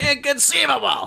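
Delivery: squeaky voice, high-pitched and rough. Showing whose voice another speaker's attempt sounded like: Wallace Shawn voice. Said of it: "that sounded like Wallace Shawn".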